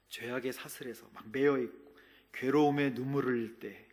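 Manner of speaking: ordinary talk, nothing marked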